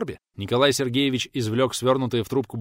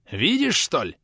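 shouted; 6 semitones higher, slower than usual. A narrator's reading. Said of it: "прокричал Олег".

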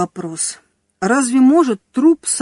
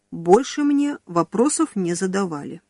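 ordinary delivery, nothing marked

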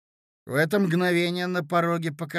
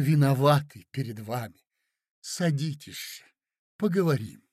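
painfully soft. Acted. Marya soothing angry Mozglyakov, pained and gentle. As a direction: soothe him with wounded gentleness. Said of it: "Голос ... был болезненно мягкий".

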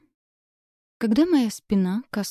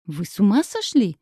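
louder, outraged yell; 4 dB louder than usual. A narrator's reading. Bride yells at James over forced marriage, outraged shout. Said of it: "завопила я".

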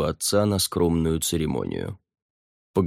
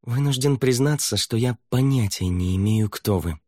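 through gritted teeth; 5 semitones higher than usual. Acted. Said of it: "сквозь зубы ответил".

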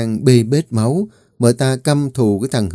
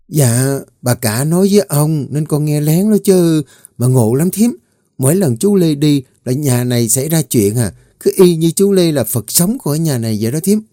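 put-on higher girl's voice chattering to the cook; eager little maid sharing news; lightly higher chatty servant girl; gossiping young servant; 5 semitones higher than usual. Mùi confides overheard gossip.

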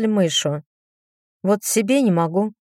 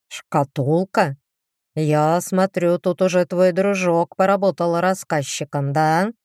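sly demon. Acted. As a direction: drag it out slyly. Demon Kristobald answers.

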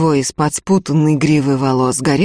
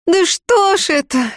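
a much higher, moaning lament; 13 semitones higher than usual. A narrator's reading. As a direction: moan it out in despair. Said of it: "простонала Акулина".

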